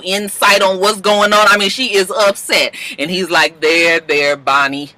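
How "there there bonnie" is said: low, gently consoling imitation; mock soothing. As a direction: play the comforter, pitched down. Asher comforts upset Bonnie.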